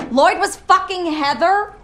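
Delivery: high, stunned outrage; shocked disbelief. Acted. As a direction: sputter it in disbelief. Shocked at ex-husband news.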